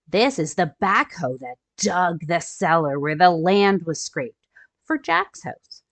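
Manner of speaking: storybook read-aloud for little ones; gentle picture-book narration; reading to children. A narrator's reading. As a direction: read it like story time for kids.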